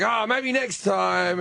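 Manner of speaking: slow, awkward consolation; sheepish. Retold or imitated. To a singer after the failed photo, slow sheepish shrug. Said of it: "I'm like".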